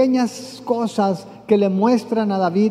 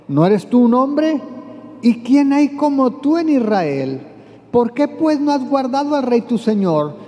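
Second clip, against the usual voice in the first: raised, higher challenge to the general; mocking call; 5 semitones higher than usual. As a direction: taunt him from afar, pitched up. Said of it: "comienza a gritar".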